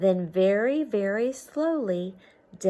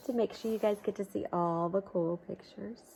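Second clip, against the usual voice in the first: aside whisper; 5 dB quieter than usual. Real, not acted. Teacher whispers to the kids while peeking at the book. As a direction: hush it like a secret to the class.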